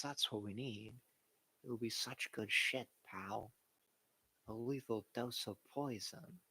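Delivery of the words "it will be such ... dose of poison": Jerry Jones impression. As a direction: play the folksy owner, barely changed. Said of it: "This is Jerry's version".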